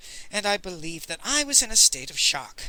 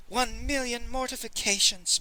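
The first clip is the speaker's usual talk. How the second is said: moaning; 6 semitones higher than usual. A narrator's reading. Pretty Ping lamenting her humiliation, moaning. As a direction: moan it in a raised, sinking wail. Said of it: "moaned Pretty Ping".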